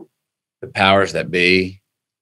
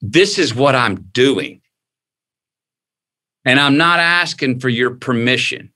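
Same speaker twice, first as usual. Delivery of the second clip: defiant declaration; 4 semitones higher than usual. Retold or imitated. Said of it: "break out of the mold and go".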